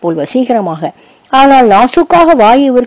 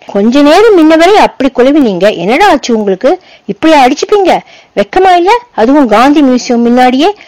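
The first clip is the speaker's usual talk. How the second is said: scolding teacher; 4 semitones higher than usual. Acted. Teacher scolds two fighting boys.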